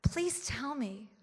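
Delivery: slow, mock American accent; gushing fan in a slow American accent. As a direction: put on an American accent, drawn out. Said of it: "I'm gonna do an American accent".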